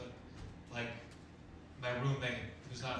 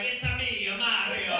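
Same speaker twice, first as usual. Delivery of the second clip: a light, higher put-on Italian plumber; Mario voice; 9 semitones higher, 9 dB louder than usual. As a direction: toss off a cheesy Mario catchphrase. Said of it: "someday I'm gonna do that voice".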